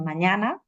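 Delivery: "mañana" with a lengthened middle a; exaggerated vowel lengthening. Shown as a demonstration. Teacher repeating the long-vowel example, exaggerated "mañana". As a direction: hold the stressed ña of "mañana". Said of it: "esto lo estoy exagerando".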